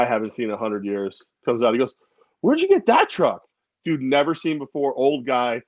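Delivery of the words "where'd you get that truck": high-pitched mock old guy; old guy's question. Old guy asks about the truck, high mock voice. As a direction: call it out high, imitating a nosy stranger.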